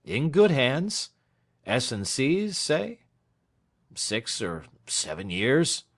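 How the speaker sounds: put-on a dry old lawyer counting years; shrewd lawyer Snitchey. Snitchey's voice in dialogue.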